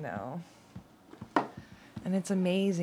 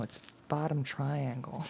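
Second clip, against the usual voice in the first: whispered to herself; 2 semitones lower, 5 dB quieter than usual. Real, not acted. Muttering while studying card.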